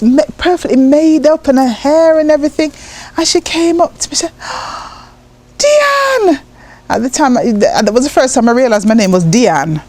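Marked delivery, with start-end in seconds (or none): 4.4-6.4 put-on high, bright greeting of a long-lost child; excited call. Mum spotting her daughter at the airport, excited call. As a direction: call her name with joy.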